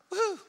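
half-hearted high "woo"; a token football cheer with no force; mock polite little whoop; feeble cheer. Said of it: "when your team scores, you don't go".

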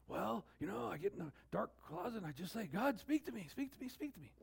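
lightly mocked pleading prayer; imitated pleading churchgoer. Churchgoer in a dark closet begging God to speak, mock pleading. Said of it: "You say".

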